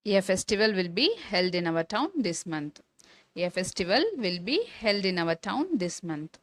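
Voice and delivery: each word spaced out for the class; slow dictation. Shown as a demonstration. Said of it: "teacher dictates a model sentence". (மிக மெதுவாக சொல்லிக்காட்டுதல்)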